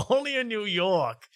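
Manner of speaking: high, stretched mock slogan; hammed-up catchphrase. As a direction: draw it out like a cheesy jingle.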